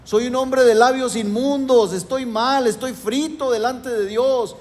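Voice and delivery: lamenting prophet in preached quotation; prophet's lament. Retold or imitated. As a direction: cry it out as a man undone before God. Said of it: "Levantó ayes de dolor".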